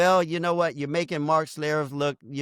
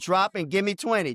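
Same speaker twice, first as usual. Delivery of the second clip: barking gym coach. Pretend. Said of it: "T's boot camp".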